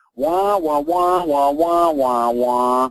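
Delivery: loud droning wah-wah voice.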